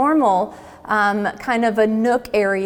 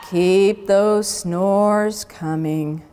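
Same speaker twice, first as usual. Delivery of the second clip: sleepy teacher; 3 semitones lower, much slower than usual. Acted. Sleepy teacher voiced in story.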